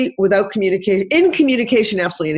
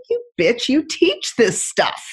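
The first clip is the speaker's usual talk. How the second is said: mild mock anger; 5 semitones higher, slower than usual. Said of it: "He said".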